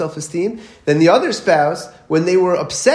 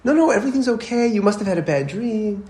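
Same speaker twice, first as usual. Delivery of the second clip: lightly voiced mom, pitched up; raised-pitch, mock-soothing reassurance; reassuring mother; 5 semitones higher than usual. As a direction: imitate a mother insisting all is fine. Mother soothing son after bad dream.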